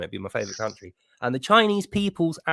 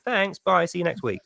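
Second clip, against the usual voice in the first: higher, sugary fake-friendly farewell; sweet mock goodbye; 5 semitones higher than usual. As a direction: say it all sweetly, like a polite thief. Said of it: "smile sweetly and go".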